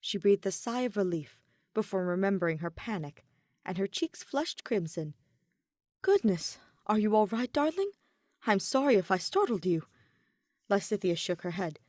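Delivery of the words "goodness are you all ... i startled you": a touch louder, worried and caring; concerned girlfriend. Acted. Edelgard checks on startled girlfriend, mildly worried. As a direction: check she's all right, gently alarmed.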